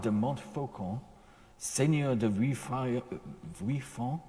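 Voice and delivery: slow, halting attempt at French place names in a French accent; self-conscious French accent on the names; terrible French accent. Shown as a demonstration. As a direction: sound the French names out carefully, stumbling. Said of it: "excuse my terrible French accent".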